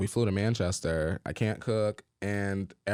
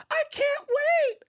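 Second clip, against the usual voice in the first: high, slow, sugary phone voice; customer service voice; much slower than usual. Retold or imitated. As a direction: sound extra polite for the caller. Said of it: "I put on my best customer service voice".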